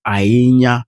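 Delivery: "Ainya" with the voice tweaked the native Idoma way; "Ainya" in the native Idoma tune. Shown as a demonstration. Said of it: "you have to tweak your voice".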